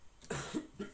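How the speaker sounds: muffled cough; quick cough into the hand; coughing fit. Real, not acted. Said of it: "je tousse un peu".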